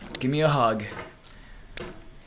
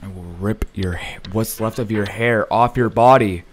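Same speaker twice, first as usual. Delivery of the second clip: angry threat; 2 semitones lower, 8 dB louder than usual. Real, not acted. Raging at the game, threatening.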